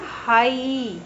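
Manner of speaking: "हाई ई" with the final ई held long; drawn-out ई sound. Shown as a demonstration. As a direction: say "हाई ई", separating out the ee ending. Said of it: "ई की sound निकल रही है".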